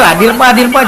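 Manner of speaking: echoey, crackly call audio; echoing voice. Real, not acted. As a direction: voice ringing back like a big hall. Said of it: "Kita bergema banget suara Bapak itu".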